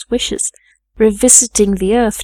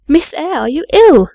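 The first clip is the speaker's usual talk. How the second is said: high, urgent question with a loud swoop on the last word; startled, raised-pitch inquiry; alarmed questioning; 7 semitones higher, 6 dB louder than usual. A narrator's reading. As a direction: call out in concerned alarm. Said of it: "again demanded Bessie".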